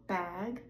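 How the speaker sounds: Bag with a voiced G at the end; voiced final G. Shown as a demonstration. Teacher contrasting Bag with back. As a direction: keep voice on the G in Bag. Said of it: "I will say the voiced word first".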